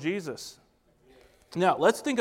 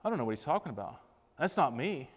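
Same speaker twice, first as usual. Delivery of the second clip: softer, lower private thought; quiet, lowered thinking-aloud voice; muttered inner thought; 3 semitones lower, 6 dB quieter than usual. Acted. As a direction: say it softly, as if to oneself. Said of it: "And you're thinking".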